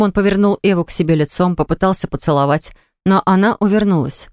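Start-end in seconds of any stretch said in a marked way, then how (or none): none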